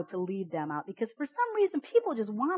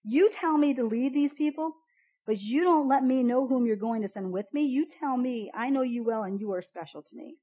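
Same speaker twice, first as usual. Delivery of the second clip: frustrated; 4 semitones higher, 4 dB louder than usual. Retold or imitated. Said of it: "He gets so mad".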